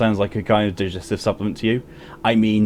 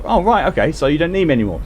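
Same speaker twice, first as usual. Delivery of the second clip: high, mock-hurt sarcasm; sarcastic; 7 semitones higher, faster than usual. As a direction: pretend to be offended. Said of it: "I was like".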